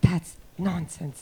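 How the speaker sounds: put-on muttering under breath. Retelling a press conference, imitating muttering under breath. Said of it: "muttering under my breath".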